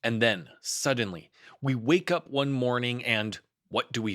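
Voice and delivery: lightly voiced fussy Rabbit, rising; a hint of an anxious rabbit; Rabbit's excited speech. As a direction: build Rabbit up, indignant and busy. Rabbit's speech read as character.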